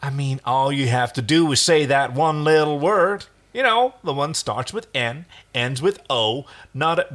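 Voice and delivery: high, loud, rushing words; manic and fast. Acted. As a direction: push on, close to cracking. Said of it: "speaking quickly, his voice starting to crack".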